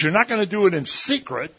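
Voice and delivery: emphatic command. Retold or imitated. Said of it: "But he says".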